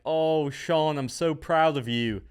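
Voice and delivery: mock proud parent in a shaky Australian accent; proud mum gushing, Australian-ish. Parents praising their son Sean, in a half-hearted Australian accent. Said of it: "that was Australian accent".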